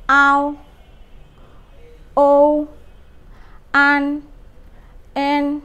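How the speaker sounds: each final drawn out on its own; Chinese finals. Shown as a demonstration. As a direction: model every final slowly for the class. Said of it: "আবার".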